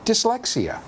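"dyslexia" lifted high like a solemn diagnosis; grand reveal. Shown as a demonstration. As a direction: unveil "dyslexia" as the impressive answer. Punchline fancy name revealed.

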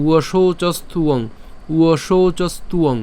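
"উয়শৌচস্তুয়ং" linked without a break. Shown as a demonstration. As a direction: draw it out but leave no gap before "য়ং". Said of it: "একটু দ্রুত উচ্চারণ করতে হবে".

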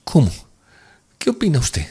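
high-pitched, urgent woman; anxious question. A narrator's reading. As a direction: demand an answer, on edge. Woman anxiously asks his opinion.

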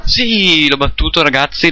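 high victorious yes; excited cheer. Real, not acted. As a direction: celebrate the win. Beats Ryu.

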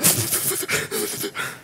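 high, sputtering fake sobs; mock hysterical crying. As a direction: imitate a kid bawling after being pulled from water. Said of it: "I'm just crying. I'm just hysterical".

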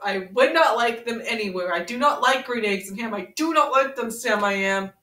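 sing-song read-aloud to a friend; storybook reading. Acted. Reading Green Eggs and Ham to Ren, storybook lilt. Reads Dr. Seuss book aloud.

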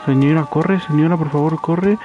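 rising, frantic pleading; being chased. Real, not acted. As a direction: beg her to run, panicking. Pleading while enemy chases character.

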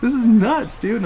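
can't believe what the opponent just did; amazed squeal. Real, not acted. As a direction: shriek in disbelief at the screen.

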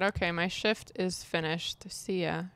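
soft breathy whisper of the sim's goodbye; hushed mock farewell; whispered quote. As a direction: whisper her casual sign-off. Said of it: "she said".

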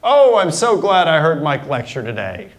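glad, lifted exclamation with a punch on oh. Shown as a demonstration. Teacher shows students the sentence as an excited exclamation. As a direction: sound delighted about the lecture. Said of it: "change a statement to an exclamation".

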